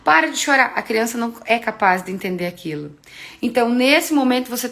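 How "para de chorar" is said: exasperated parent threatening the slipper, hammed-up; mock parent yelling. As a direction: play the fed-up parent snapping back. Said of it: "você começa a gritar".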